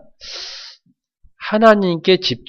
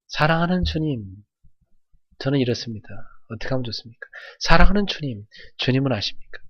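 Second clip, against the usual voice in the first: tender prayer; 4 dB quieter than usual. Shown as a demonstration. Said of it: "제가 제일 좋아하는 건".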